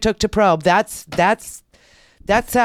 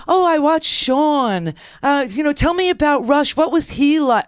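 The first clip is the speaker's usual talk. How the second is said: higher-pitched imitation of nosy techs; gushing fan; 6 semitones higher than usual. Techs quizzing patient about radio hosts, gushing. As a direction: lightly mimic a fan, pitched up. Voices techs as Sean fans.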